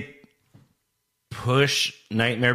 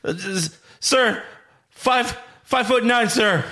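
recruit voice; 9 semitones higher than usual. Acted. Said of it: "Do you wanna be Private Cowboy".

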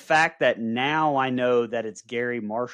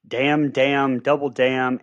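a touch louder, playful quoting; quoting the wife; 2 semitones higher, 5 dB louder, slower than usual. Retold or imitated. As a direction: toss off the movie line like his wife does. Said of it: "lines from this movie my wife constantly says".

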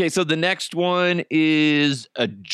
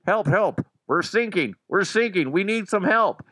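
retold distress call; 6 semitones higher than usual. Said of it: "you hear on the radio".

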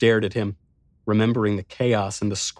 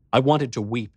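plain reading voice

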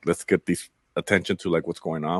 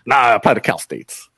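mocking laugh; 3 semitones higher than usual. Counselor laughs off a student's Ivy League hopes, mocking laugh. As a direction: scoff through a laugh at the kid's big dream. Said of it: "He laughs at me".

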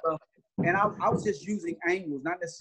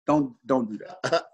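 calm; 4 semitones lower, slower than usual. Retold or imitated. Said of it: "And I was very calm".

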